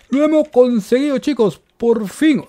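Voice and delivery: high, elated celebration; triumphant cheer. Real, not acted. Player tells viewers they finally won, triumphant cheer. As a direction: cheer it out high, victory at last.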